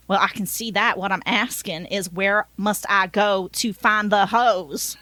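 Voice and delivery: explaining with a put-on Southern twang; lightly voiced Southern taxi driver; Southern accent. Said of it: "I gave him a Southern accent".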